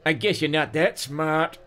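high-pitched thug's sneer; hammed-up taunting snarl; mocking snarl. A narrator's reading. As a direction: snarl it as a dumb heavy. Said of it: "the chubby one snarled".

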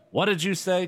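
high, insistent question; demanding. A narrator's reading. Chris overhears her sister muttering, high sharp demand. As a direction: demand it with the pitch jumping up. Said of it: "Chris demanded".

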